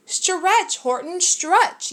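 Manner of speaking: lightly voiced bug yelling orders; drawn-out bossy shout of stretch. A narrator's reading. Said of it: "yelled the bug".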